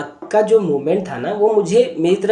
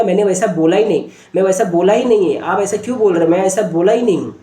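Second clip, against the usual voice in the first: mildly heated repeated denial; defensive child; faster than usual. Retold or imitated. Accused boy answering back to his sister, defensive. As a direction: push back against the blame, insistently. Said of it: "बच्चा डिफाइंड कर रहा है".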